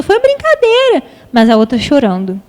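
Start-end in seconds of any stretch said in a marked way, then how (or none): 0.0-1.0 put-on much higher, slow, dismissive little girl; child brushing it off. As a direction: play the giggly kid shrugging it off. A outra criança rindo. (criança despreocupada, bem aguda e lenta)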